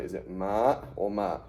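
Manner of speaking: MA stretched, then MA the other way; contrasting vowel lengths. Shown as a demonstration. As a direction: weigh up MA against MA, slowly. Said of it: "how do I pronounce it?".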